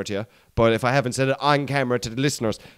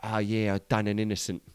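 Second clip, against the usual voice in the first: lower, quieter Cockney villain; imitating old gangster; 4 semitones lower, 7 dB quieter than usual. Old gangster confessing to the interviewer, lower and quieter. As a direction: mutter it like an old London crook. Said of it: "the voice on him".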